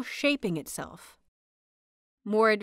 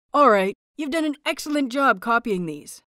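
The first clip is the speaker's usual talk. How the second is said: brightly; 2 semitones higher, 5 dB louder than usual. Acted. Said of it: "he says brightly".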